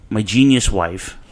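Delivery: slow, dry sarcasm; sarcastic. Real, not acted. Host telling listeners about the wife, sarcastic. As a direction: draw it out with sarcastic praise. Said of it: "I say that sarcastically".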